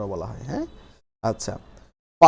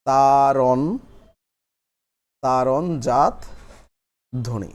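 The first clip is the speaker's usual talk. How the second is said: তারণ, তারণজাত ধ্বনি in pieces with long pauses; slow dictation; much slower than usual. Shown as a demonstration. Teacher dictating while everyone writes, slow and broken up. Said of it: "সবাই লিখে ফেলি".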